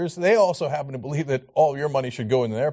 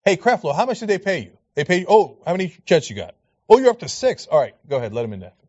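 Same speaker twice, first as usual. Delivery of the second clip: mock God; 5 dB louder, faster than usual. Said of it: "is gonna ask Creflo Dollar".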